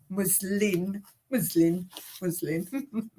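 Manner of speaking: "muslin" repeated with a clear N; muslin with final N. Shown as a demonstration. Drilling the material's name, careful "muslin" ending in N. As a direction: practise "muslin", landing on the N. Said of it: "but it's muslin".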